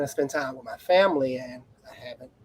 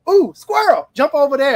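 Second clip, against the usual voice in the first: high, loud mock scatterbrain voice; distracted self; 7 semitones higher, 8 dB louder than usual. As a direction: play your own easily distracted mind, squeaky and excited. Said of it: "I'm like".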